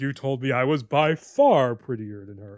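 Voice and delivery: lightly voiced smug fifties dad; a hint of a condescending sitcom father; douchey fifties dad voice. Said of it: "the douchey fifties dad voice there".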